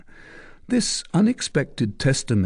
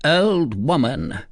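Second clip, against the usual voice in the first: slow, stern commanding soldier; gruff commander; 6 semitones higher, slower than usual. Acted. Commander hunting a witch, stern and slow. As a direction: talk down to her as the man in charge.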